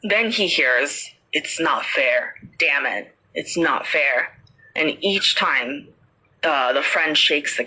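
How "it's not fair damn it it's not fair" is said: slightly lowered, understated bitterness; deep, bitter voice. Acted. Parrot repeating the uncle's complaints, in a deep, bitter voice. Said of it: "bitter words in a middle-aged man's deep, low voice".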